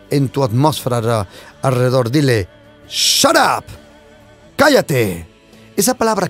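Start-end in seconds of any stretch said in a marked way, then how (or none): 2.9-3.6 commanding rebuke. Pretend.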